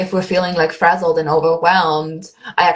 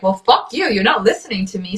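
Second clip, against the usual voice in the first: annoyed intuition; 3 semitones higher than usual. Retold or imitated. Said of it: "the more your intuition's like".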